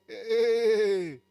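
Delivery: loud, high mocking accuser, pushing hard; devil's taunting voice. Pastor voicing the devil to his listeners, loud high mocking taunt. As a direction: sneer and accuse like the devil himself. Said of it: "el diablo te dice".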